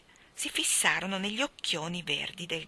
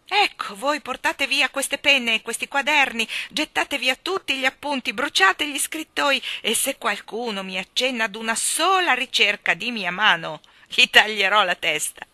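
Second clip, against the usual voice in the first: loud royal orders, pitched up then dropping; exuberant commanding king; 5 semitones higher, 9 dB louder than usual. Acted. King ordering stupefied courtiers to clear everything away, exuberant command. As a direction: proclaim it boisterously at full voice.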